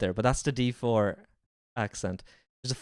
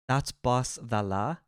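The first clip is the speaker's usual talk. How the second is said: slow, tentative Scouse; Scouse accent; 2 semitones lower, much slower than usual. Shown as a demonstration. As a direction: try the Scouse accent slowly. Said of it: "in a Scouse accent?".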